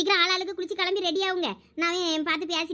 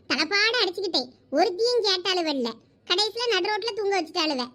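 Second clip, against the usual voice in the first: angry rant; 2 semitones higher than usual. Acted. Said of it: "கோவப்படாத".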